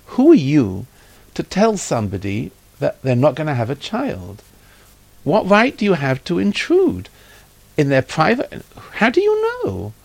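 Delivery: indignant scolding, rising in pitch; retold angry scolding. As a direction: imitate an outraged wife demanding answers. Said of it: "She screamed at me".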